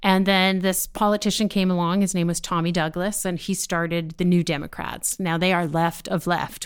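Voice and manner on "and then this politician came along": normal talking voice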